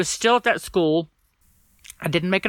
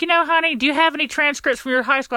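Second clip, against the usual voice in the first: higher, sugary talking-down voice, lightly done; condescending counselor; 8 semitones higher, faster than usual. Retold or imitated. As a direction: patronize him like a dismissive school counselor.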